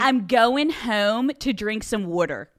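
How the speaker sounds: slow Philly accent demonstration; Philly accent, "water" as "wooder". Shown as a demonstration. Native showing guest the Philly accent, demonstrating. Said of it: "yes, the accent".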